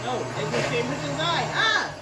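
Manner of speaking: high, loud onion-sting yelp; crying out from stinging eyes; teary from chopping onions. Real, not acted. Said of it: "I had tears in my eyes".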